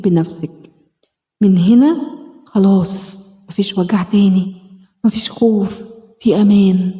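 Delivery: gentle self-help meditation guide; guided healing exercise. Acted. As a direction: talk her gently through the inner-child exercise. Leads a self-hug healing exercise.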